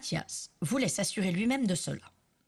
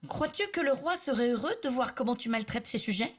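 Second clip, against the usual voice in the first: strong voice; 7 semitones higher than usual. Acted. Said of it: "d'une voix forte".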